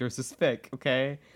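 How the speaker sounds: ordinary delivery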